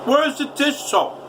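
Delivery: high, slow, demanding yell; angry yell. Retold or imitated. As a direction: drag the question out, fed up. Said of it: "I was screaming and yelling".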